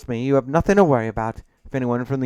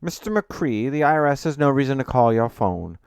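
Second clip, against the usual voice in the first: louder, assured professional voice; authoritative, confident; 4 semitones higher, 7 dB louder than usual. A narrator's reading. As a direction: lay down the facts with confidence. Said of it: "presenting a tone of authority and confidence".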